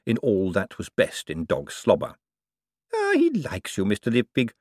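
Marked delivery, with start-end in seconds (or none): 2.9-4.5 approving. Acted. Old lady to visitor whose face her dog licked, approving. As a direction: coo approval as an elderly woman. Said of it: "said Miss Lavish approvingly".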